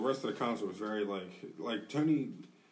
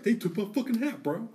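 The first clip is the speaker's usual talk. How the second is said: high, loud imitation of an outraged friend; acted indignant protest; 11 semitones higher, 5 dB louder than usual. Friend retelling Tony's complaint about his stolen hat, indignant. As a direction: voice shoots up in mock outrage.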